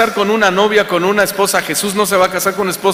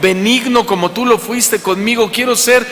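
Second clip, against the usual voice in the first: a sermon's closing prayer, earnest and lifted; heartfelt prayer. Acted. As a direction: pray it aloud for the congregation.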